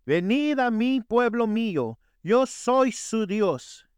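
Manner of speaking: a hint of Jesus calling his people, drawn out. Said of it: "Y Jesús dijo".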